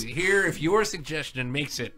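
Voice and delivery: quiet. Shown as a demonstration. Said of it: "repeats line differently".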